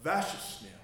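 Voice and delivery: Vashasnil said as VASH-ahs-nil, falling at the end; Norwegian word. Shown as a demonstration. Teaching the church the Norwegian word for please, falling. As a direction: Vashasnil spoken as a taught word. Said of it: "Let me give you another one".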